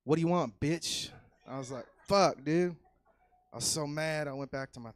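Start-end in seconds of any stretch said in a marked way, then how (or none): 0.0-1.1 put-on loud, higher snarl of a rude kid; hostile inner child. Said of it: "I heard a voice". 2.1-2.8 shocked. Retold or imitated. Shocked reply to insult.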